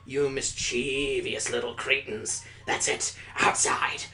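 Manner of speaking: slow, menacing teacher scold; hint of a stern teacher; teacher punishing the class; stern teacher punishment. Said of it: "delivery in a shrill, innocuous voice".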